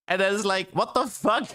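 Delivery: exasperated disbelief. Real, not acted. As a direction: throw up your hands in disbelief. Exasperated at game design.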